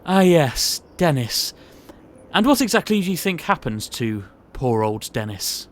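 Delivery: looming, menacing posh boss; sinister boss. Acted. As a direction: build dread as you reveal the secret. Boss reveals the dark secret.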